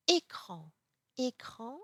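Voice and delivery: écran, first vowel like a pure "ay"; accent aigu. Shown as a demonstration. French teacher contrasting aigu with grave, écran with closed é. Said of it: "accent aigu".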